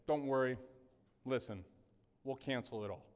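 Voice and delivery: lightly voiced banker, quietly letting someone off; understated, hushed reassurance; reassuring banker.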